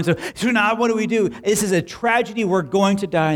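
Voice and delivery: a son wailing that all is lost; panicked son. Acted. Son panics to his dad after the donkey runs off, rising mock panic. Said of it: "The son panicked".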